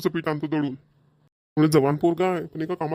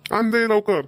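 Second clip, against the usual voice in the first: raised, hurried demand; impatient; 5 semitones higher, 4 dB louder, slower than usual. Acted. Father urges wife to bring the flour, raised voice. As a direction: snap at her to hurry up.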